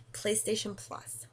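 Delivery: slow, drawn-out odd voice; stretching the words out slowly; odd put-on voice. Real, not acted. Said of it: "I don't know why I'm talking like this".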